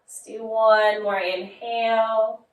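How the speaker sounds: slow breath cue, drawn out on "long"; guided breathing. Acted. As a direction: stretch the words like a long exhale. Coaches deep breathing.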